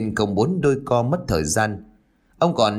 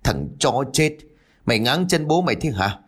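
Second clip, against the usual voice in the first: put-on howling drunk, pitch climbing higher; drunken howl; 3 semitones higher than usual. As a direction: bellow at him after falling flat. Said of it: "Hắn liền gào lên". (gào lên giận dữ, giọng cao dần)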